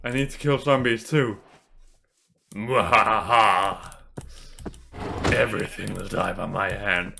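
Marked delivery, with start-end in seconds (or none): 2.5-7.1 evil laugh then low villain line; wild unhinged ranting. Acted. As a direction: ham up a lightly voiced villain. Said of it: "The hunt for blood has begun".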